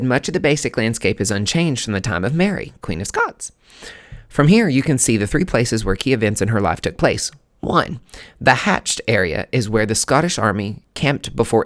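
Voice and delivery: loud, emphatic read-aloud; reading a placard aloud. Acted. Reading viewers the placard about Mary, emphatic read-aloud. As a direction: read it out clearly and forcefully.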